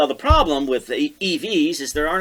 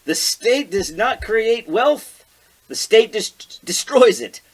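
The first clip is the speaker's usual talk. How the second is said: quoting Milei; 5 semitones higher than usual. Retold or imitated. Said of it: "he says".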